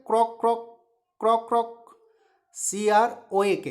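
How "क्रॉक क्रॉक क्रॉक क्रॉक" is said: short paired croaks; teacher imitating croak-croak; frog croak. Shown as a demonstration. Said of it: "frog क्या करता है".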